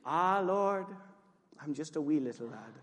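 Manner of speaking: Jeremiah. Acted. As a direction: plead as a small Scottish lad. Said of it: "You didn't know Jeremiah was Scottish".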